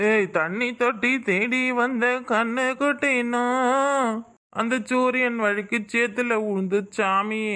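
put-on a drunk man grumbling to himself about liquor; drunk father. Drunk father mumbling about money for another quarter.

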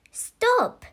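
put-on girl's desperate scream, restrained volume. A narrator's reading. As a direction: cry out high to halt him. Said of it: "screamed Zoe".

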